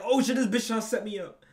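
loud, high and laughing through the words; mock alarm, cracking up; imagining being set up, laughing loudly; laughing panic. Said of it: "I'd be like".

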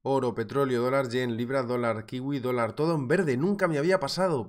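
gritando de alegría, más fuerte y agudo; euforia a gritos. Real, not acted. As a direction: celebra a voz en grito que todo está en verde. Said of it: "Siento a los que les haya dejado sordos". (grito eufórico de verdad ante el público)

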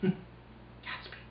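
talking around pipe stem; speaking with pipe clenched; pipe in mouth. Real, not acted. Seen 2: hand holds pipe stem at lips throughout; refs show it lowered.

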